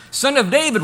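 high, loud beggar's call; retold calling out. Blind beggar catching Jesus' attention, loud retold call. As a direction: throw out the name as a cry. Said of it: "He hears something he hasn't heard".

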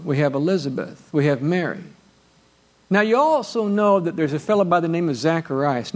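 ordinary talk, nothing marked

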